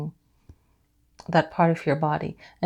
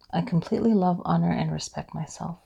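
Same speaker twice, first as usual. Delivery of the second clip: affirmation read; 5 dB quieter than usual. Shown as a demonstration. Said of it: "You can repeat after me".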